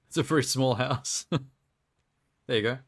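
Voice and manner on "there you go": laughing. Real, not acted. Laughing while placing tiny house.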